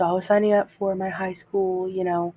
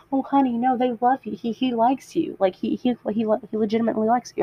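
higher, sugary parent voice, lightly done; mimicking doting dad; 5 semitones higher than usual. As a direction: coo it like a dad soothing his kid. Voicing dad's sweet reassurance.

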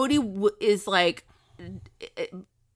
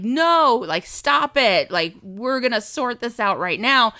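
stern parent; 4 dB louder than usual. Retold or imitated. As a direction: put your foot down like a fed-up parent. Imagined parent halting the fight.

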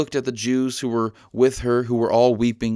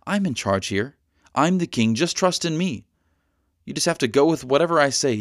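higher, pushy, rushing through the last line; mock bossy king; 4 semitones higher, faster than usual. Jesus imagined as a bossy king toward Martha, mock commanding. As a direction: play a domineering ruler laying down the law. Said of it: "He doesn't say".

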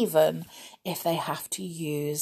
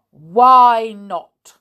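very loud, higher challenge; defiant retort; 4 semitones higher, 13 dB louder than usual. A narrator's reading. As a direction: throw it back as a loud dare. Villain defies Binky in story.

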